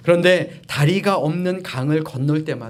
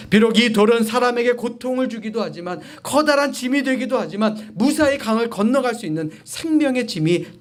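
raised, insistent pulpit voice; emphatic preaching; 7 semitones higher than usual. Real, not acted. Preacher drawing lesson from stone, emphatic preaching. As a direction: build the contrast with conviction.

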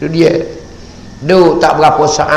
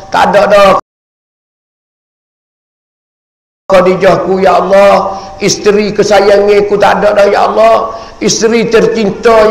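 impassioned grieving cry to God; acted weeping lament. Prophet mourns his beloved wife before Allah, anguished lament. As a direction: plead in grief, pitch lifting on each phrase. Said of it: "Nabi kita menangis".

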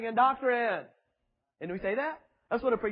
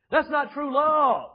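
slow emphatic; 4 semitones higher, 6 dB louder, slower than usual. Real, not acted. Preacher's emphatic declaration.

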